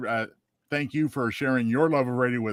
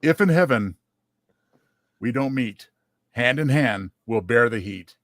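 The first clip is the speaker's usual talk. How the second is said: recited holiday rhyme; 3 dB louder than usual. Shown as a demonstration. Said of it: "And it goes like this".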